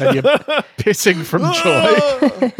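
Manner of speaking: can't hold the laugh in. Real, not acted. Cracking up at own joke.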